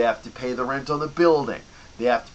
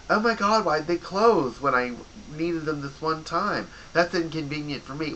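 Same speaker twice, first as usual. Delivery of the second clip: whiny customer; 5 semitones higher than usual. Retold or imitated. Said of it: "everyone goes".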